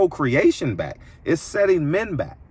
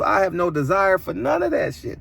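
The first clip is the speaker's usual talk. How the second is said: shout; 5 semitones higher than usual. Real, not acted. Ranting about refusing disrespect.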